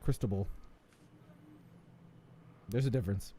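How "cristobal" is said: "Cristobal" mimicked with English vowels; low mock-quote of an Anglicised "Cristobal"; imitating English mispronunciation. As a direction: say "Cristobal" as the co-host did, un-Spanish. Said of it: "No, you were like".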